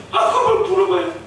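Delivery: laughing retort. Acted. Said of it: "그럼 제가 막 그래".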